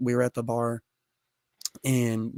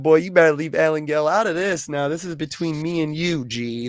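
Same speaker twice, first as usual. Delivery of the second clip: mock tough warning; 3 semitones higher than usual. Acted warning about mama.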